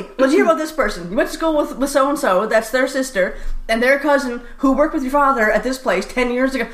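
lightly voiced small-town gossip; imitated gossiping caller. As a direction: mimic a relative rambling through who's who. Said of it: "Mona will call me".

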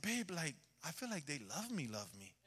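hushed, heartfelt confession, dropping away; quiet confiding. Retold or imitated. Husband telling his wife he feels loved, quiet confiding.

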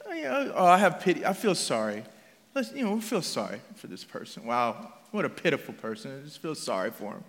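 soft, low murmur of sympathy; mild mock pity. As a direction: feel sorry from afar, half-hearted and subdued. Voicing shallow, passive pity.

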